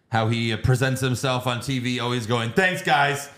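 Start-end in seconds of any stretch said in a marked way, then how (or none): 2.5-3.3 stiff robotic monotone imitating Tony Khan. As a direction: say it like a nervous robot. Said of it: "talking like a robot".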